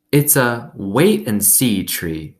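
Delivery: put-on slow, drawn-out old woman; lightly voiced old woman. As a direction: savour each word like a wise old woman. Gloria Dump speaks in story.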